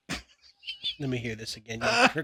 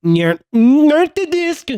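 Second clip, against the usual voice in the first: backwards speech; 12 semitones higher, 6 dB louder, much slower than usual. Shown as a demonstration. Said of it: "try to say it backwards".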